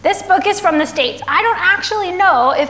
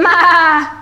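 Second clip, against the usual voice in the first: drawn-out imitated "maa"; goat's bleat; 3 semitones higher, 7 dB louder than usual. A narrator's reading. Goat in a children's story, long bleat. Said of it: "said the goat".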